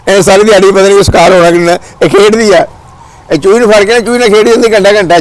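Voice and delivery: real, worked-up explaining; animated protest. Real, not acted. Protests to companion about the cat.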